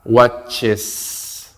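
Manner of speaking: "watches" in two distinct syllables, the added E fully sounded; clear ES ending. Shown as a demonstration. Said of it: "la E que suene fuerte y claro".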